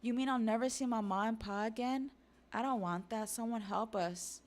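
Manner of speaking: put-on high-pitched child in dismay; acted childish alarm, slowing into the plea; distressed kids. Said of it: "the giant kids are like".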